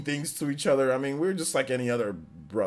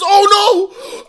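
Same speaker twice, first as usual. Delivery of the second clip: high, loud playful yell; mock scare shout; 14 dB louder than usual. Brother with bag over head shouts, loud mock alarm. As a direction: shout it to make them jump. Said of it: "and says".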